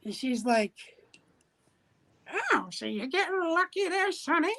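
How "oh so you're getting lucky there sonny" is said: put-on higher voice of an older lady; lightly voiced teasing lady. Older lady teasing the boy at the counter. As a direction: tease the kid like a shop lady.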